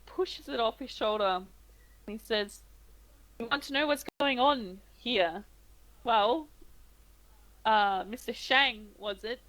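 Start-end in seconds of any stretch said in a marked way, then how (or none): 3.4-9.4 patronising barkeep. Acted. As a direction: speak to him like a small child. GM voices the barkeep.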